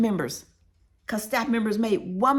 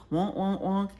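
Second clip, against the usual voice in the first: honking wordless grown-up babble; Charlie Brown's mama; slower than usual. Retold or imitated. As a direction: mimic a cartoon adult's trombone-like wonks. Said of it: "sound like Charlie Brown's mama with the wonk".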